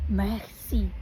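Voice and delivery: "Merci" with the R from the back of the throat; French merci. Shown as a demonstration. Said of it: "sound comes from the back of the throat".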